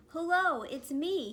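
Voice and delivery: a fish calling for his friends. A narrator's reading. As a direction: call out brightly across the reef. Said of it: "he called to his friends".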